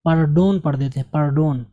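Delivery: PARDON as "par-DOAN", long o; wrong "par-DON". Retold or imitated. Teacher imitates what people often say, wrong "pardoan". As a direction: imitate "par-DOAN" with full second vowel. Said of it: "इसको अक्सर लोग".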